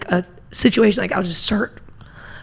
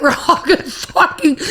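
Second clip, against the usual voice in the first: laughing mock panic; 6 semitones higher than usual. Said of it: "everybody starts screaming".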